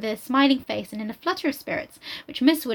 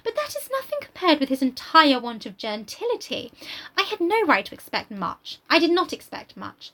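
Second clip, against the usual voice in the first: lofty Emma; 4 semitones higher than usual. Acted. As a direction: look down on him. Reads Emma's reply.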